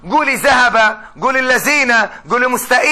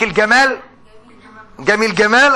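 Egyptian hard g; 2 semitones lower than usual. Retold or imitated. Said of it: "يقول لك".

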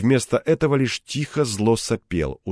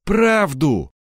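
smirking; 5 semitones higher, 3 dB louder than usual. Acted. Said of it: "ухмыльнулся незнакомец".

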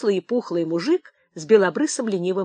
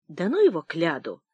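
lazy drawl; 2 semitones lower than usual. A narrator's reading. Miller bored with questioning the tramp, lazily drawling. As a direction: wave it off lazily. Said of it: "лениво протянул мельник".

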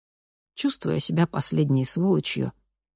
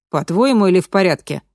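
stern, louder pointed question; строго; 4 semitones higher, 6 dB louder than usual. A narrator's reading. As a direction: demand it strictly. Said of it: "строго осведомился Маше".

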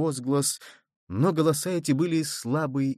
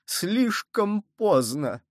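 higher, very slow anguished repeat; despairing; 7 semitones higher, much slower than usual. A narrator's reading. Cardinal repeating his despair, higher and slower. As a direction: stretch it out in dismay. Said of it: "хватаясь за голову".

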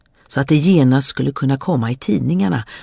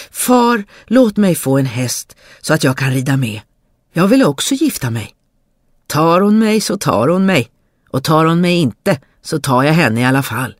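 a lightly voiced, eager young fool, a touch louder; eager pleading simpleton; 2 semitones higher, 3 dB louder than usual. Simpleton begging his father for a horse, eager. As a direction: beg father like a cheerful fool.

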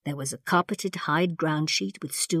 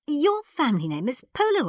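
bright; 9 semitones higher, 3 dB louder than usual. A narrator's reading. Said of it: "Barbara said brightly".

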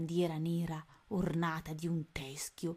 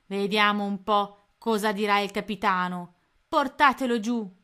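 rough pirate; 2 semitones higher, 9 dB louder than usual. Acted. Pirate orders Tony taken below.

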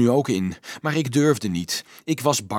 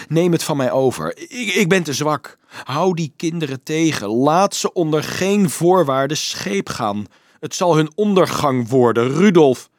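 urgent, raised voice, building to the name; desperate plea; 4 semitones higher, 5 dB louder than usual. A narrator's reading. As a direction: beg him, louder towards the end. Johannes begs Dolf to take over. (wanhopig en steeds luider smekend)

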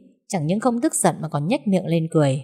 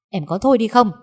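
shouting at wife; 4 semitones higher than usual. Acted. Husband yelling at his wife to stop, sharp. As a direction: cut her off hard. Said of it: "liền quát lên".

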